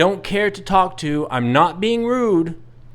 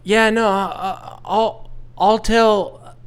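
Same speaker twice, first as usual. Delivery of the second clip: flustered grandma. Retold or imitated. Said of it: "the grandmother goes".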